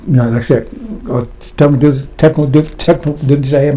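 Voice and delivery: tired, failing voice; losing voice. Real, not acted. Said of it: "about to lose my voice".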